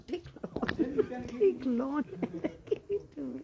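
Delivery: high-pitched, broken up by laughter; amused laughing quote. Real, not acted. Storyteller voicing the Brahman urging a loan, high and laughing. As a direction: giggle through the retold demand.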